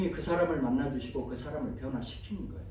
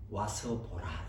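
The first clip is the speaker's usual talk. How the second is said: 빌립의 초대; 10 semitones lower, 6 dB quieter, much slower than usual. Acted. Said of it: "빌립이 뭐라 그래요?".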